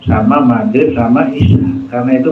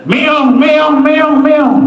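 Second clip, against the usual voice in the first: high, pleading meows mocking a beggar; mock cat meowing; 12 semitones higher, much slower than usual. Preacher mocking grave worshippers as begging cats, high mock meows. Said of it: "Dia minta".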